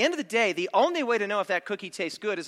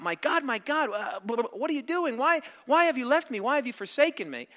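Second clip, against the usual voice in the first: high-pitched, lightly acted plea; retold anguished cry; 5 semitones higher than usual. Preacher quoting the Son's cry to God, pleading. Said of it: "when he cried out".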